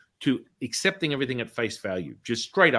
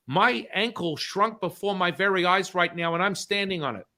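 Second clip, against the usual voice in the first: higher voice, acted disbelief; imitating an astonished woman; amazed protest; 6 semitones higher than usual. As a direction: report a marvel in mock amazement. Acting her amazement at ankle.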